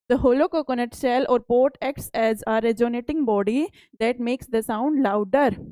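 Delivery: reads each English word out slowly and carefully; slow textbook reading. Acted. Teacher reading the textbook aloud to pupils, slow and deliberate. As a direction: spell out the book line for the class.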